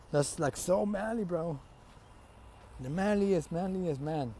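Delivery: slightly drawn-out awe; acted admiration. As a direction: play an impressed fanboy. Acted admiration of manly feat.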